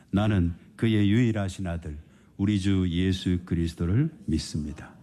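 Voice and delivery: slow, voiced, measured confession; slow creed recital. Shown as a demonstration. Preacher leading the church in reciting the creed, slow and voiced. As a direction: recite it slowly with the congregation. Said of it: "한번 같이 고백해 볼까요?".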